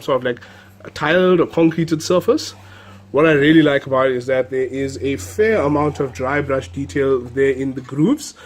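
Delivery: stuffy, nasal flu voice; talking through a blocked nose. Real, not acted. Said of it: "apologize for my slightly nasalized voice today".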